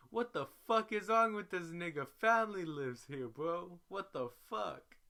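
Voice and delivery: high, loud, furious shout; angry yell. Retold or imitated. Z yelling over the phone at the suicide attempt, furious. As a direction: blow up at the news in a rough yell.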